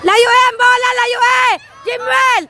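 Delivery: urgent sideline call; real, insistent shouting; shouting to player. Real, not acted. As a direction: yell an instruction across the field. Calling out to a player.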